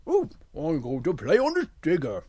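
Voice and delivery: swooping, playful bear voice; Big Bear voice. Acted. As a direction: think aloud as a big bear. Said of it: "And Big Bear thinks".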